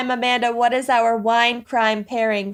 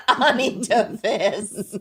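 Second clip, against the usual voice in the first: laughing; slower than usual. Real, not acted. Laughing while saying name.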